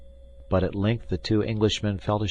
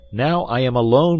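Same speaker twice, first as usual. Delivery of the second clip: loud, high call; 7 semitones higher, 8 dB louder than usual. A narrator's reading. D'Artagnan tells Athos the Englishmen have gone, calling out. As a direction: call through to a friend. Calling through door to friend.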